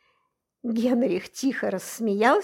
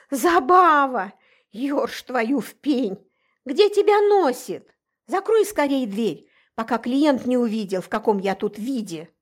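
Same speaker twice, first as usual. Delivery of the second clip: higher, louder exasperated scolding; angry scolding; 3 semitones higher, 4 dB louder than usual. Acted. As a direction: tell off the late friend in a panic. Scolding the mermaid at the door.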